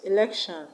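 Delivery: "Election" with the stress on LEC; stress on second syllable. Shown as a demonstration. Teacher showing unstressed affixes, "Election" stressed on LEC. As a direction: keep the first E of "Election" light, stress LEC. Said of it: "we've stressed them as though they were two syllable words".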